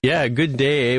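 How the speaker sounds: a light hint of Canadian hoser greeting; Bob and Doug McKenzie. Cohost echoes the greeting in mock Canadian. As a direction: echo the hoser hello with a grin. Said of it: "what would Bob and Doug McKenzie say".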